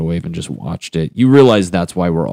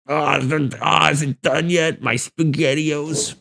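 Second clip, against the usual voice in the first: put-on excited kid; 8 semitones higher than usual. Kid voice at microwave.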